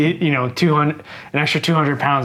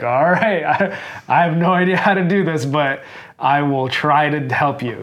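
higher, louder retold reply; eager coach reply; 3 semitones higher, 3 dB louder than usual. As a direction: cheerfully agree though unsure. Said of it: "And I was like".

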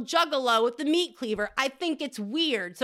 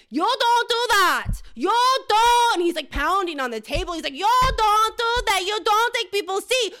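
put-on loud, high Asian accent yelling; 9 semitones higher, 7 dB louder than usual. Coworker yells over a taken seat in an Asian accent. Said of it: "I don't know if I can do an Asian accent right now, but I will try".

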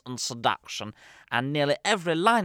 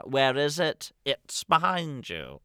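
panto call and response; 3 semitones higher, slower than usual. Retold or imitated. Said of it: "Common call and responses are".

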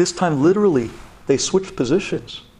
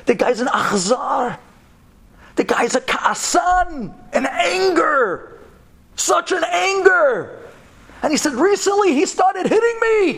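tearful; 13 semitones higher than usual. Retold or imitated. Leah describing abusive husband.

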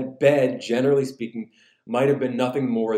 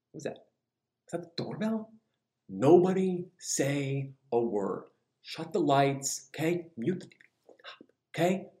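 hushed alarm; 5 dB quieter than usual. Acted. Man to his family when doorbell rings, hushed. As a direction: hush the household as if hiding.

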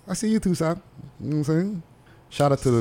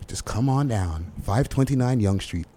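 soft, laid-back radio ad read; commercial voice; 3 dB quieter than usual. Shown as a demonstration. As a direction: pitch the place like a mellow ad. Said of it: "That's my, that's my commercial voice".

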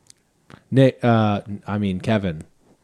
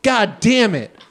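slow, higher hammed-up curse; mock fury; 6 semitones higher, much slower than usual. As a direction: curse the Grinch theatrically. Mock outrage at the Grinch.

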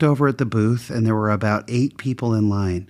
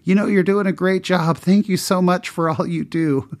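higher, eager flood of compliments; gushing praise; 5 semitones higher than usual. Retold or imitated. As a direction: pour on the thanks. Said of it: "showering the guy in the booth with compliments".

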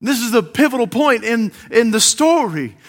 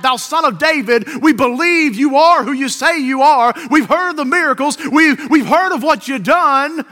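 raised, urgent call of faith; crying out; 4 semitones higher, 4 dB louder than usual. Acted. Blind men calling to Jesus outside, crying out. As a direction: call out higher than usual. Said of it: "crying out".

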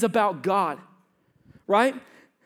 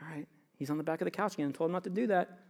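hushed whisper while spying; 4 semitones lower, 10 dB quieter, faster than usual. Retold or imitated. Father spying on his climbing son, whispering. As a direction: whisper it from round the corner.

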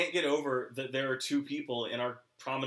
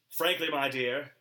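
put-on Southern gentleman accent. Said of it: "accent as Scarlett O'Hara".

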